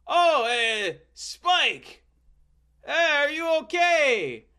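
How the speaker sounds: high, loud put-on Frenchman's voice; Jacques voice. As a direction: squeak it out like an eager French gentleman. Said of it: "And that's how he talked".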